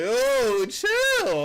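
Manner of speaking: high startled Oh, chill; mock startled chill. Calming a short girl ready to scrap, high mock alarm. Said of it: "You be like".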